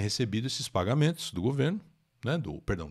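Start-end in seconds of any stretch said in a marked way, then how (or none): none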